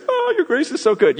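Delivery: high, loud wailing gush; mock overwhelmed cry. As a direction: ham up being overcome by grace. Acting out overwhelmed response to grace.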